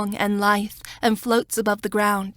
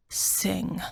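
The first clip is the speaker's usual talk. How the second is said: hushed command; 7 dB quieter than usual. A narrator's reading. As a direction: quietly tell her to sing. Smock commands softly.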